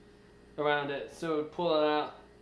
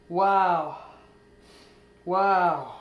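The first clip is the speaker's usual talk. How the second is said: amazed wow; 6 dB louder than usual. Real, not acted. Staring at the removed metal.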